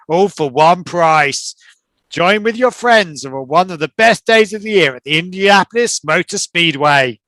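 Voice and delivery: promo voice. Acted. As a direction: sell it like a radio commercial for race weekend. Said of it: "I was just doing some sort of promo".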